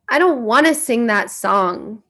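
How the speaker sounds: acted-out kid digging in; retold kid's refusal. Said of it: "like, a kid".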